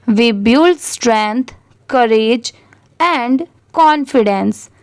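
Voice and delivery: slow, careful read-aloud for learners. Shown as a demonstration. Teacher reading a passage aloud to students, slow and careful. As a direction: read each phrase slowly for the class.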